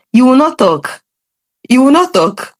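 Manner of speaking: high, stern mock warning; mother's sharp mock order; mom's warning. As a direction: hush her firmly, twice. Mom silences her before dad.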